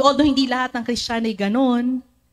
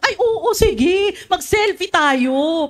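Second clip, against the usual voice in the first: higher, slow, through a laugh; amused agreement; 7 semitones higher, slower than usual. Retold or imitated. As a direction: say yes laughing, slowly. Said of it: "Parang ganun". (natatawang pagsang-ayon)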